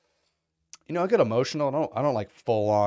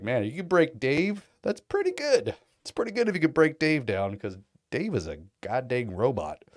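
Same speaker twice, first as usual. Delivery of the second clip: amazed; 5 semitones higher, 4 dB louder than usual. Retold or imitated. His reaction to Dave tearing up.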